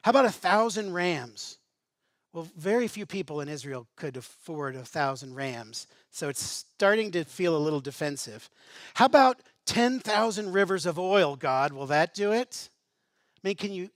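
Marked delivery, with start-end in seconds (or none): 0.0-1.6 scornful, louder taunt; contempt. Acted. Defensive people taunting God with scorn. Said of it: "can you hear the contempt in their voice". 8.9-12.7 loud, higher sarcastic challenge; contempt. Acted. People mocking God's demands with loud contempt. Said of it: "can you hear the contempt in their voice".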